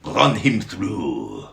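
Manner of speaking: loud, high battle cry, slowing at the end; rally the mob to attack; hammed-up war whoop and yell; screaming charge. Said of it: "they screamed".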